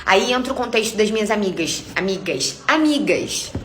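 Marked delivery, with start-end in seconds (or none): 2.0-2.6 amigas dropped low and soft, muttered. Retold or imitated. Telling her followers about her friends, a low muttered amigas. 2.7-3.5 amigas jumped up high in a sarcastic tone. Retold or imitated. Telling her followers about her friends, a high sarcastic amigas.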